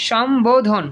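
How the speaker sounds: সম্বোধন with the ব sounded; correct pronunciation. Shown as a demonstration. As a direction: model সম্বোধন as shom-bo-dhon for repeating. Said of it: "একটু উচ্চারণ করো তো সবাই".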